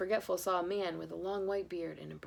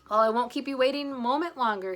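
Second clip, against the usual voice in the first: louder eager call; cried; 5 semitones higher, 8 dB louder than usual. Acted. Husband leaping into the sleigh, eager. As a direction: jump in raring to go. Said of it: "he cried".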